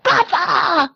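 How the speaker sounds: high, drawn-out cry for father. Retold or imitated. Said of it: "我就喊出来一声是".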